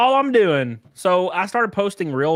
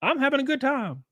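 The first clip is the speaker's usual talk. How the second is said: baffled outburst; 12 semitones higher than usual. Retold or imitated. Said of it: "I'm like".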